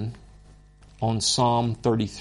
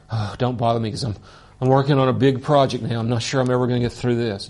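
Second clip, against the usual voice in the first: fast, flustered, louder pretend God; mock busy God; 4 dB louder, much faster than usual. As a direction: rattle it off like an overworked boss. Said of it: "God doesn't say".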